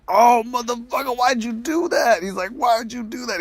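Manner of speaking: a silly high-pitched dragon squawking in shock; squeaky dragon voice. Retold or imitated. Drogon finding the dead queen, high squeaky outrage.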